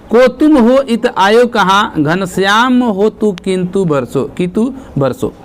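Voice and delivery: slow, measured verse reading; verse recitation. Acted. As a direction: recite the example line slowly, word by word. Reads out verse example. (धीमा काव्य-पाठ)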